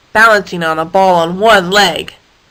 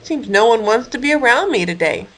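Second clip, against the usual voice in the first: sad. Acted. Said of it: "Harold said sadly".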